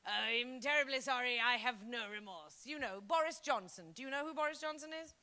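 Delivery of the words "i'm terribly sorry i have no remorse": mock remorseless politeness; insincere apology. Shown as a demonstration. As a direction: say sorry while meaning none of it. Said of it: "Listen to it".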